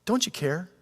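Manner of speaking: hurt question. Acted. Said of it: "it goes a little deeper".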